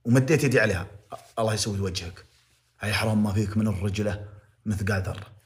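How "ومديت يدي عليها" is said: mocking the excuse. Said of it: "تقول لي".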